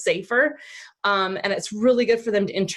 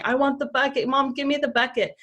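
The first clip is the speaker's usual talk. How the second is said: put-on whiny child; 5 semitones higher than usual.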